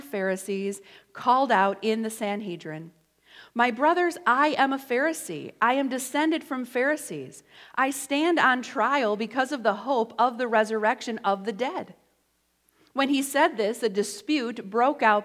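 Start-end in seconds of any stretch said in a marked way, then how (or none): 3.5-11.9 calling out. Retold or imitated. Paul calls out in Sanhedrin.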